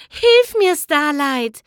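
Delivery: urgent hiss out the mouth corner; hissed aside. Acted. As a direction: plead sharply under the smile. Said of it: "zischte sie aus dem Mundwinkel". (aus dem Mundwinkel gezischt)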